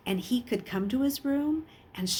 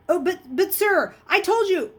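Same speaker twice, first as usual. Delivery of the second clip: much higher, loud whining protest; whiny protest; 11 semitones higher, 7 dB louder than usual. A narrator's reading. Bully whining to the teacher, protesting. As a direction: wheedle and plead your innocence. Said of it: "Raleigh protested".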